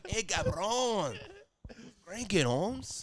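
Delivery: slow, high cholo drawl. Pretend. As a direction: lay on the cholo swagger. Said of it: "Jesus is just a cholo".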